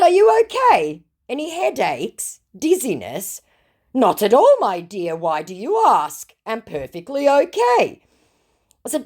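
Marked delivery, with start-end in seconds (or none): 0.0-3.4 mock concern. 3.9-8.0 mock scammer voice. Reading scammer's reply aloud.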